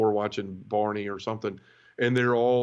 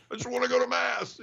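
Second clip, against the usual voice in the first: much higher, whiny mock plea; whiny self-mockery; 13 semitones higher than usual. Telling the nun he only wants Mass, high whiny mock plea. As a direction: play yourself as a whiny kid. Himself answering the nun, comic.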